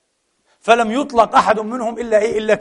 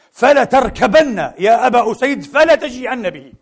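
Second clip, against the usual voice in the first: urgent command; 4 semitones higher, 3 dB louder than usual. Acted.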